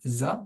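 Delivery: "Za" set apart as its own syllable; isolated syllable. Shown as a demonstration. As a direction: sound out "Za" alone. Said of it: "troisième syllabe". (« Za » en syllabe détachée)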